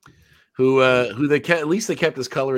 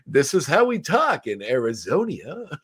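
Matt Berry voice; 3 semitones higher, slower than usual. Retold or imitated. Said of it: "And he's like".

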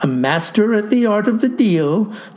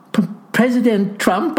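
stammering; 2 semitones higher than usual. Acted. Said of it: "I stammered".

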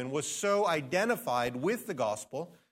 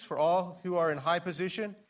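all given the weight of the line; stress on all; 3 dB louder than usual. Shown as a demonstration. Pastor reading to his church, stressing all. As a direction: land on all, then let the rest flow. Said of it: "I'm going to emphasize a certain word".

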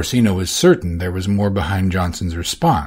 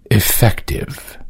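slow, breathy trailing word; hesitant near-whisper; slower than usual. Acted. Valentine hesitantly finishing her sentence to Orsino. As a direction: let the word slip out almost voiceless.

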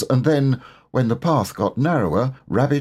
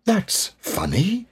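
Tigger; 10 semitones higher, slower than usual. A narrator's reading. Tigger puzzled.

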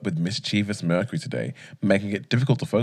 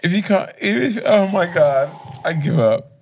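laughing; 5 semitones higher than usual. Real, not acted. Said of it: "I'm really wheezy".

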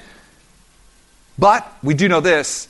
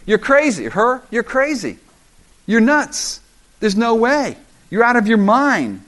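mocking dismissal; 5 semitones higher than usual. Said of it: "what do they tell him".

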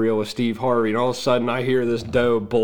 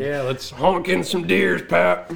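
slow, higher playful cheer; mock enthusiasm; 7 semitones higher, slower than usual. Co-host joking along to Pap, mock-enthusiastic. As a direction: draw it out in a hammed-up higher voice.

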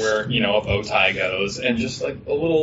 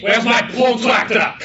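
mock fussing; 11 semitones higher, 5 dB louder than usual. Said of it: "He's like".

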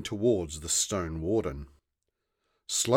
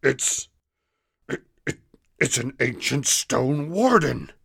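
stunned, stammering, louder; disbelief; 5 semitones higher, 5 dB louder than usual. A narrator's reading. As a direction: gasp it out in disbelief. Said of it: "said Ash in disbelief".

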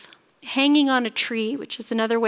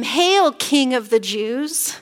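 mock hail; 3 dB louder, slower than usual. Soldiers calling out to Jesus, a mocking hail. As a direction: call out a mock royal greeting. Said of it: "they began to call out to him".

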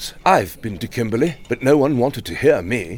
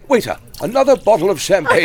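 loud; 6 semitones higher, 5 dB louder, faster than usual. Acted. Calling to the waiter.

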